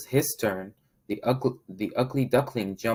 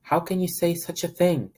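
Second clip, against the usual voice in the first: higher, louder scolding; stern voice; 7 semitones higher, 4 dB louder than usual. Acted. Mama Duck scolding her ducklings, stern. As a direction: rebuke the rude ducklings. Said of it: "in a stern voice".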